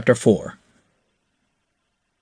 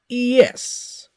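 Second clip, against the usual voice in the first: a little nervous; 4 dB louder than usual. A narrator's reading. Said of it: "a little nervousness in his voice".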